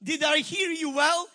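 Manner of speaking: rising, shouting protest; indignant outburst. Retold or imitated. Pastor protesting to God about his own money, indignant shout. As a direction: argue back at God, hurt and loud. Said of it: "And my pastor said".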